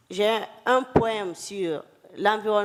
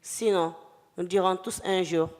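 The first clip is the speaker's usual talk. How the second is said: poem declamation. Acted. Poet declaiming a poem on environment and climate, solemn declamation. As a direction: declaim it in measured phrases with long pauses. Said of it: "si je peux le déclamer".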